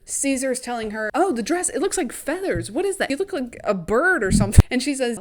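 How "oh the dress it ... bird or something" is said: high, swooping wonder; acted amazement. Caesar telling Katniss about her feathered dress, acted amazement. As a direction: marvel at it in a raised, lilting voice.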